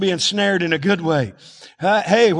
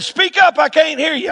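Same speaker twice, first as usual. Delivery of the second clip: much higher, louder call to speak up; husband calling to muttering wife, louder; 9 semitones higher, 4 dB louder than usual. Retold or imitated. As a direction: raise the voice across the kitchen.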